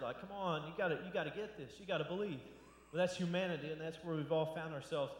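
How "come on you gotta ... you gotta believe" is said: mildly exasperated urging; kind of frustrated. Retold or imitated. Jesus urging people to believe, mildly frustrated. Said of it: "Jesus is kind of frustrated".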